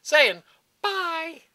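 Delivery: put-on voice, slowing down; drawn-out impression of a fighter; Nick Diaz. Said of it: "Nick Diaz talks like this anyway".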